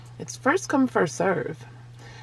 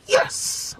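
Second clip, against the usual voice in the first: high, squeaky celebration; imitated child's cheer. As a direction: squeal it like a delighted girl. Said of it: "Like that".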